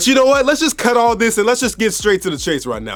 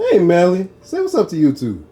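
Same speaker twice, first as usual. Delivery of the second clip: calling out; 3 dB louder than usual. Real, not acted. Calling to someone nearby.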